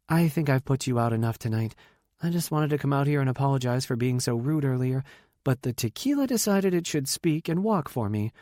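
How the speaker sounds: lightly voiced guest, a touch sheepish; hint of a contrite woman character; apologetic party guest. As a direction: give her a mild, self-mocking apology.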